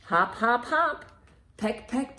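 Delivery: ordinary delivery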